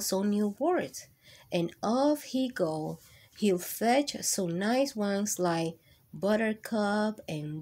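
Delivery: lively picture-book reading voice; reading to children. Acted. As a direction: read it warmly to a class of kids. Reads picture book aloud.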